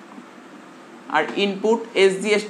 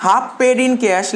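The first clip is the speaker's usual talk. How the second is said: each word drawn out slowly for notes; slow dictation; much slower than usual. Shown as a demonstration. Teacher to class taking notes, slow dictation. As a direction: dictate slowly so students can write. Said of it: "লেখ".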